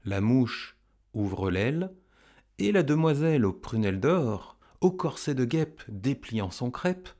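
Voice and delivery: slow, measured poetry reading; poem recitation. Acted. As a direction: recite it line by line with lifted, emphatic openings.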